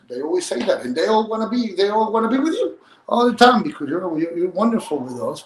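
a father lightly voicing his son's praise; imitating his son. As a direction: voice the boy, rising in excitement. Father voices son reassuring him.

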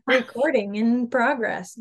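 imitating the Zoom recording announcer; flat automated announcement read; computer voice. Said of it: "Got it".

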